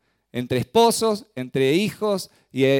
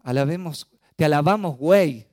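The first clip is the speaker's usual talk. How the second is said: mock misheard lyric; 4 dB louder than usual.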